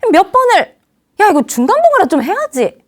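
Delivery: exasperated boss rebuke; hot-tempered boss. Acted. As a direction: chew out your subordinate. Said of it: "우리 상사가 그렇게 나오거든요".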